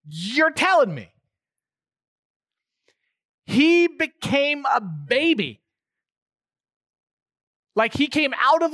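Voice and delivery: astonished sermon climax; impassioned preaching. Acted. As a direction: marvel out loud at God becoming a baby. Preacher rising to an exclamation.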